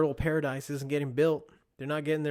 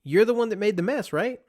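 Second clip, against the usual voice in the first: raised, higher wife's voice; mock scold the child, pitched up; wife scolding child over mess, raised voice; imitating a scolding wife; 8 semitones higher, 7 dB louder than usual. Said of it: "And she goes".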